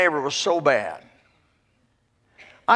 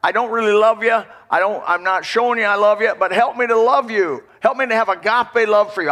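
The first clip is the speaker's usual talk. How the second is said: sample prayer; 4 semitones higher than usual. Pretend. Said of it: "go to God and say".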